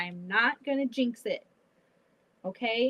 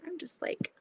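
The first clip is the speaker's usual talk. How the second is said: whisper; 6 semitones higher, 6 dB quieter than usual. Real, not acted. Struggling while sewing.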